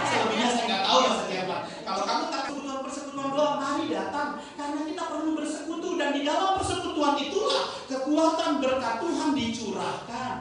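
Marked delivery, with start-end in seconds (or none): 1.8-10.3 raised-pitch sermon exhortation; preaching. Acted. Pastor inviting people to fellowship, urgent preaching. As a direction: urge the congregation, building in force.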